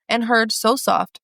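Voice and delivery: slow, gentle, hushed reading. Acted. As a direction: read it slowly and tenderly, savouring each word. Reading tender passage, getting emotional.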